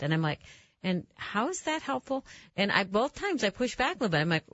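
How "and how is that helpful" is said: high, dry incredulous pushback; a raised, sceptical comeback; skeptical retort. Retold or imitated. Host retorting to a gloomy warning, high and skeptical.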